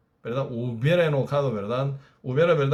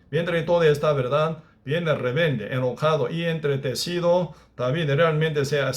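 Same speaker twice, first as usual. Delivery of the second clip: ordinary talk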